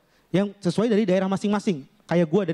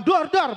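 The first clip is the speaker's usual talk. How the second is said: higher, punchy "dar, dar"; imitated explosions; 5 semitones higher than usual. Comic picturing a riot, imitated explosion noise. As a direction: mimic blasts going off. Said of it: "suara ledakan".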